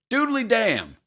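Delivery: high, loud jovial bellow; bellowing big pal. A narrator's reading. Nervous dad covering up to his son, bellowing big pal voice. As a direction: boom it out, over-hearty. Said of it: "in his bellowing big pal voice".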